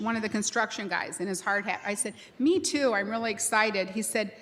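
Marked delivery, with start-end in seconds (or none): 2.4-3.9 excited reply. Retold or imitated. President echoes worker's excitement.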